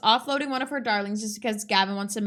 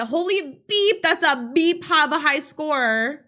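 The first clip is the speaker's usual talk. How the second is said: higher, punched-up mock cursing; imitating the cursing customer; 5 semitones higher, 5 dB louder, slower than usual. Putting it as the other guy would, mock sweary outburst. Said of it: "as the other guy would put it".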